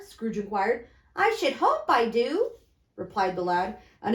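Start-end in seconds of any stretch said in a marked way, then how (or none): 1.2-2.5 put-on high young boy's hello. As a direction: pitch up to a child. Boy voiced in the reading.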